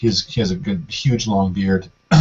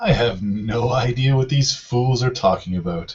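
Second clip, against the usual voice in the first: confident, self-assured dismissive tone with a chuckle; 3 semitones higher than usual. A game master voices an accused character answering the accusations, confident and chuckling. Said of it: "He chuckles, is still very confident".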